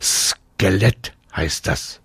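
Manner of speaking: "Skelett" drawn out slowly, opening sound stressed; "Skelett" said slowly and clearly; correcting. A narrator's reading. Boy corrects a mispronounced word.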